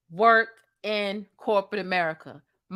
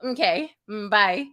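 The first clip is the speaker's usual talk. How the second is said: mock breezy phone goodbye. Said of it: "That is how you end phone calls that have went very well".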